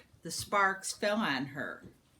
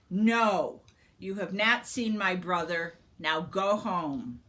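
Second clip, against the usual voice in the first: stern dismissal; 4 dB louder than usual. Acted. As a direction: send them home sternly. Sister sends them away.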